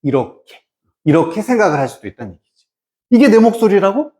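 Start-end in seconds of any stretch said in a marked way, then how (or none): 3.1-4.1 mildly startled question, higher and quick; startled disbelief. Acted. Student hearing their own recorded voice, mildly startled. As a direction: act out a touch of surprised disbelief. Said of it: "깜짝 놀랐어".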